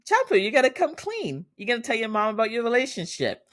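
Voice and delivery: excited urging. Real, not acted. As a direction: urge her on like a hyped fan. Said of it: "at first I was like".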